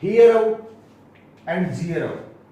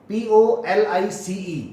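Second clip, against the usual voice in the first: slow spelling; 2 semitones higher, 4 dB louder, slower than usual. Shown as a demonstration. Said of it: "spelling out letters".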